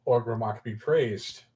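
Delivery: slow, measured in-character declaration; lightly voiced zealous servant; solemn devotee. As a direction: proclaim allegiance with slow gravity. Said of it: "holds up his hand and goes".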